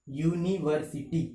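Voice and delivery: यूनिवर्सिटी lightly separated as यू-नी-वर-सी-टी; syllable by syllable. Shown as a demonstration. Teacher recapping the syllable count, यूनिवर्सिटी said in measured parts. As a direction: step evenly through each syllable of यूनिवर्सिटी. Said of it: "उच्चारण करते वक्त कितने भागों में".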